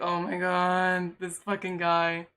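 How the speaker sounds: slow, drawn-out disbelief; exasperated. Retold or imitated. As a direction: drag it out, fed up with him. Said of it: "And I'm just like".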